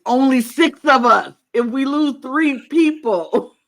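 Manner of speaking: hammed-up alarm at the odds; mock panic. Player working out a triple elimination, in mock panic.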